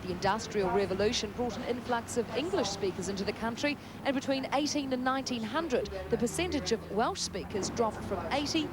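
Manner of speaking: scripted reporter voice, lifted key words; measured, lilting news-package narration; TV feature report read. Acted. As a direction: present it as a light travel feature.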